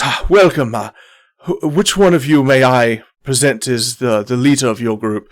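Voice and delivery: lightly voiced gracious captain; a hint of formal, ceremonious welcome; courtly captain. Captain asking for the group's leader, lightly courtly. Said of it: "goes, he goes".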